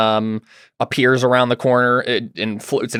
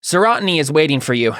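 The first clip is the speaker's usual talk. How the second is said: Jack; 5 semitones higher, 3 dB louder than usual. Acted. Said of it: "he says".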